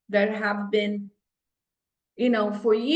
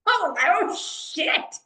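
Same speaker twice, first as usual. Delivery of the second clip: shocked; 5 semitones higher, slower than usual. Real, not acted. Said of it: "Excuse my vocabulary".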